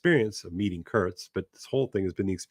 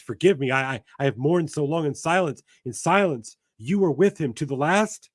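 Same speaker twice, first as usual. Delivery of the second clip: raised, quick pleading lament; grieving woman voice; 5 semitones higher than usual. Acted. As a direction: plead it through grief. Voicing the grieving Intended.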